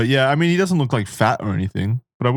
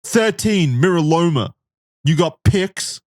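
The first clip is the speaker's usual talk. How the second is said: lightly voiced young boy, higher; a hint of a kid asking; little boy voice; 7 semitones higher than usual. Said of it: "the little boy points to himself".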